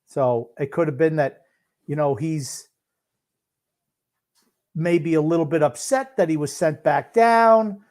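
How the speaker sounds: halting, with long gaps between phrases; long pauses. Real, not acted. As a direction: leave long pauses as you think it through. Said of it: "you're taking pauses long as hell".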